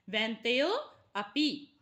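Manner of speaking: वैन्तेयो, pause, then अपि with clear opening 'a'; avagraha pronounced 'a'. Shown as a demonstration. Teacher showing how the avagraha is pronounced, अपि set apart with clear 'a'. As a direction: sound the 'a' of अपि separately after वैन्तेयो. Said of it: "इसका उच्चारण अ होगा".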